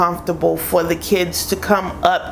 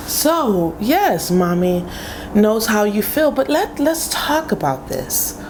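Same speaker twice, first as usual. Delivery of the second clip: calm mom voice. Retold or imitated. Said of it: "I'm like".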